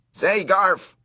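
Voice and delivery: high, loud squeaky call. A narrator's reading. Mouse trying to get the boy's attention, squeaky call. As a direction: call the boy's name to get his notice. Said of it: "at the top of his mouse voice".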